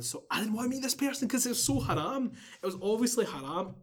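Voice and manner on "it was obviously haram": "obviously" pushed higher and harder; stress on obviously. Shown as a demonstration. Storyteller underlining to listeners that it was haram, stress on "obviously". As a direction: lean hard on the word "obviously". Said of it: "emphasis on the word obviously".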